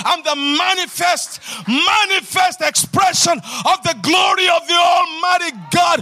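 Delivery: rousing sermon cry; full-force preaching. Acted. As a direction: lift the crowd with every line. Preacher shouting affirmations.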